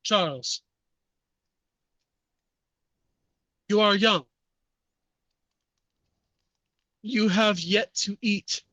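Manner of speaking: put-on French-accented persuader, measured with long pauses; acted French-accented appeal; Jacques. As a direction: coax a pupil in a French accent. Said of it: "heavy French accent".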